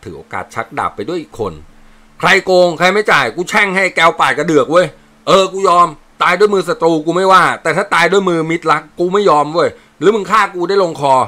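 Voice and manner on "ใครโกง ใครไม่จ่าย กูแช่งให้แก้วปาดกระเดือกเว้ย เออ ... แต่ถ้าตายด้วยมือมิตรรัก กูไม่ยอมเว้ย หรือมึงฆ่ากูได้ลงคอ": loud curse. Acted. Soldier curses and protests loudly.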